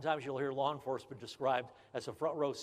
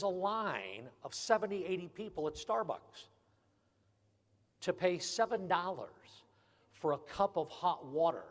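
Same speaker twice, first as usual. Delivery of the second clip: incredulous; 5 semitones higher than usual. Real, not acted. Mocking Starbucks prices.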